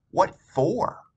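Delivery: suspicious Mom. Acted.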